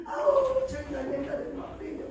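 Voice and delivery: high exasperated groan, then a fast grumble; mock angry grumble. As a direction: vent in a fast, fed-up grumble to herself. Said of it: "막 그러면서 혼자 막 울고".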